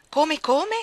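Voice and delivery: outraged, high and loud disbelief; exclaiming. Acted. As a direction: gasp it out in outrage. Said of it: "esclamò egli". (esclamazione incredula, forte e alta)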